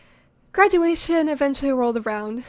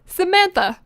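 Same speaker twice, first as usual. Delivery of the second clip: high, raised mock-angry call; angry mother calling; 6 semitones higher, 4 dB louder than usual. Mother calling after her fleeing daughter, angry. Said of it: "My mother's angry voice rang".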